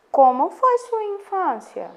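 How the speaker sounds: slow, high rising question voice; questioning tune. Shown as a demonstration. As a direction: ask it slowly, lifting the pitch to show a question. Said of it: "Observa a entonação que a professora tá dando".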